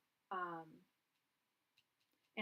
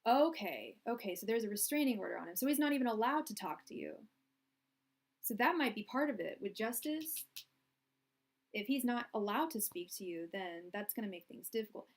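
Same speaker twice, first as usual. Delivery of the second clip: raised voice, pitch jumping on key words; projecting loudly; 4 dB louder than usual. Real, not acted. Tarot reader to client about a restraining order, projecting loudly. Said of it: "sorry if I'm yelling right now".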